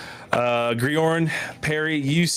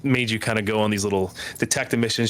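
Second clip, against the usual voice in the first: apologetic dad; 3 semitones lower than usual. Acted. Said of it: "the elf looks up at you and says".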